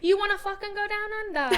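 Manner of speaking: a jokey, laughing line in a put-on English accent, pitched high; tossed off in a hammed-up English accent; laughing English accent, teasing her friend about Australia; mock English accent. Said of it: "I said that in an English accent".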